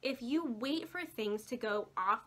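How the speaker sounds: talking through hiccups; hiccuping. Real, not acted. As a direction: speak while the hiccups catch you. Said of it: "sorry, I'm hiccuping".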